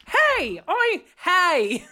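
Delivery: high, loud hail across a room; excited greeting. Retold or imitated. Partygoer hailing someone with a British accent, excited. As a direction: call out eagerly, acting out the hello.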